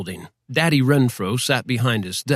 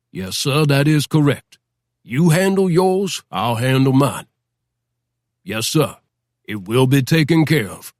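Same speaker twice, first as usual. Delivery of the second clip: feigned servitude. Acted. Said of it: "feigned servitude demeanor".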